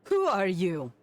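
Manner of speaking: sharp startled who are you; mild alarmed challenge; startled demand. Acted. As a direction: confront the intruder in surprise. Startled character confronts stranger.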